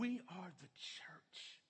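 hushed, slow whisper. Acted. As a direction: lean in and breathe the words, slowly. Preacher drops to a whisper.

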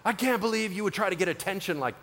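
mock scolding.

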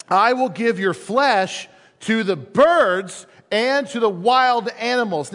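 slow, emphatic giant's threat; Goliath voice. Acted. Goliath threatening David before the duel, slow menacing proclamation. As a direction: draw out each threat like a looming giant. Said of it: "That's my Goliath voice".

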